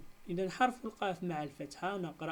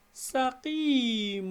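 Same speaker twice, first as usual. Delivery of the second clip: slow and louder, higher, syllables apart; slow syllable split; 5 semitones higher, 5 dB louder, much slower than usual. Shown as a demonstration. Teacher to pupils, splitting the word, slow and high. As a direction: say it slowly for the class to split. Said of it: "نجزئها سقيم".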